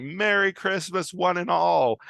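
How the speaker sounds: high, sing-song cheery announcement; mock festive greeting. Joan in a cheerleader outfit greets the wedding guests, high and hammed-up. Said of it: "she says something like".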